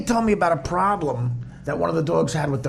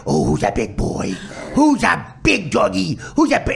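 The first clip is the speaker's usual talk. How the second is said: put-on Chicago accent. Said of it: "in that Chicago".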